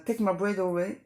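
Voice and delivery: The song title in a French-accented English, spoken plainly. Real, not acted. Naming today's song, with French-accented English. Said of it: "désolée pour mon accent".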